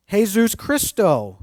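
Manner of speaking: put-on slow, careful Spanish "Jesus Cristo" for kids; Spanish words. Shown as a demonstration. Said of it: "That's kind of easy".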